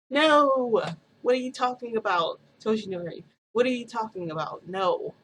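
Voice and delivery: high, loud, frantic no; upset protest. Retold or imitated. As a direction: refuse it, rising in panic. Protesting being left with Hawks.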